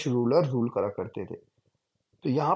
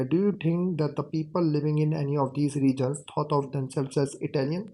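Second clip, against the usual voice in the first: slow, deliberate reading aloud; textbook reading; much slower than usual. Shown as a demonstration. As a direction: read each word out slowly for the class. Reads textbook question aloud. (धीमे-धीमे किताब से पढ़कर सुनाना)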